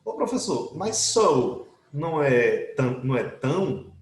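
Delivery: lightly voiced student objecting; imitating a student. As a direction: mimic a doubtful pupil asking. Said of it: "Vem algum aluno e diz assim".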